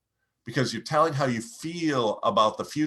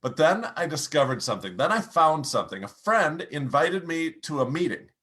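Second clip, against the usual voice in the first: upbeat turn; 3 semitones higher than usual. Shown as a demonstration. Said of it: "Now pick up your pace, pick up your volume".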